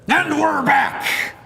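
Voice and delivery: host return. Acted. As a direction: announce the return. Returning from break.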